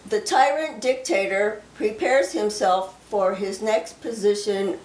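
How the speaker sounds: slow, solemn delivery of a prophecy; prophecy reading. Acted. Sharing a received prophecy with viewers, slow and solemn. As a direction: speak the words as if the Lord speaks through you.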